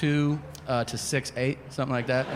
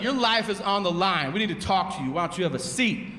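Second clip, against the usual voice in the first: serious detective; 4 semitones higher than usual. Retold or imitated. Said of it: "detectives insist on using the suspect's street name".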